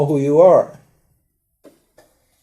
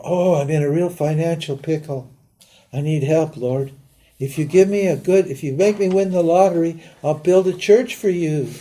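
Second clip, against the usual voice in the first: mock bargaining prayer; 3 semitones higher than usual.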